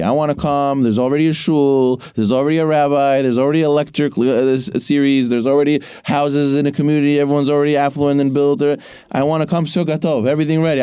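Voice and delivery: high, pleading mock whine of someone who wants it all ready; mocking community people who want everything handed to them, in a high whine; whiny mock settler. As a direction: play a spoiled newcomer begging to be served. Mocks people wanting everything ready.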